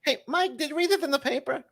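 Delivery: fast, high Jay Leno headline voice. Acted. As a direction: do Leno's quick high setup. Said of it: "I did the other Leno there".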